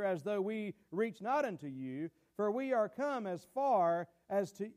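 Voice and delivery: slow, deliberate Bible reading; measured pulpit reading; scripture reading. Acted. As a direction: read the passage out phrase by phrase, unhurried. Reads scripture aloud.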